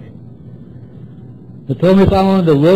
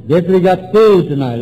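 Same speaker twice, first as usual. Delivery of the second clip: firm list-item delivery; dictating; 3 semitones higher than usual. Retold or imitated. Sponsor dictating to newcomer, dictating firmly. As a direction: hand down the next item. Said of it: "you write and I'll dictate".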